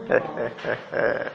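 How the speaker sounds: low, soft chuckle in short pulses. Real, not acted. Laugh in the telling.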